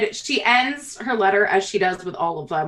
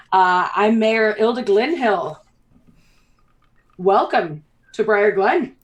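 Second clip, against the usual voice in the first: welcoming hill dwarf mayor; slower than usual. Acted. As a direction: announce yourself to the newcomers. Plays Mayor Ilda Glenhill.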